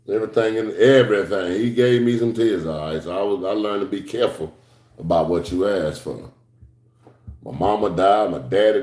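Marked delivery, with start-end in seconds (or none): none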